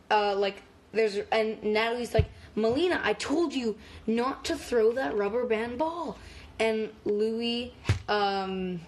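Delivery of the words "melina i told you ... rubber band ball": yelling teacher. Retold or imitated. Teacher scolding Melina over a thrown ball, mock yell. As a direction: imitate a teacher telling a pupil off. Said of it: "the teacher, Natalie, is yelling".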